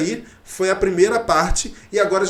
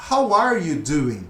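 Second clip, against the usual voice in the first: slow full form; much slower than usual. Shown as a demonstration. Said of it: "jeito bem informal de perguntar".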